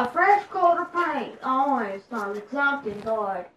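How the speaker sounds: hint of an old-time Southern aristocrat; put-on Southern gentry accent. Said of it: "that accent was great. It's like a Southern aristocrat".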